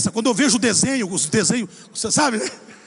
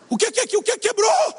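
almost crying; 12 semitones higher than usual. Retold or imitated. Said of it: "Já quase chorando".

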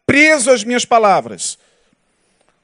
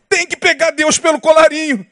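higher, insistent mock preacher; religious leader imitation; 5 semitones higher than usual. Preacher quoting a religious leader's demand, imitated intonation. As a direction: mimic a bold preacher's demand. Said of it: "Foi um líder religioso de uma denominação".

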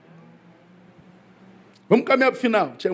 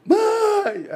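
very high imitation of a child's cry; mock kid calling out to mother in a high wail; child yelling for mom; 3 dB louder than usual. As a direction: squeal it like a tattling child. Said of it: "A criança grita logo".

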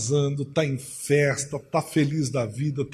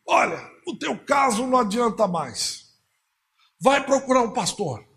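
lightly voiced medium in trance; a touch of a spirit speaking through her; a hint of an entranced medium's voice; mãe de santo voice; 5 semitones higher than usual. Mãe de santo voiced in sermon story.

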